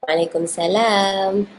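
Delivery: Waalaikumsalam run into "alekum salaam", no ain; Malay-style reply. Shown as a demonstration. Co-host showing how Malays answer, Waalaikumsalam without ain. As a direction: drop the ain in Waalaikumsalam, stretch "salam". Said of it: "kalau jawab salam bela-, orang Melayu kita".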